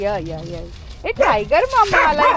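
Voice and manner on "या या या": low, soft voice for the dog; voicing the dog. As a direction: speak for Tiger welcoming the pups. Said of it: "टायगर बोलले". (टायगरच्या तोंडचे खालच्या आवाजातले शब्द)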